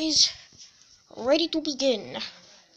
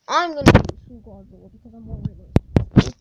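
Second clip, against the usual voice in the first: loud excited; 4 semitones lower, 11 dB louder than usual. Real, not acted.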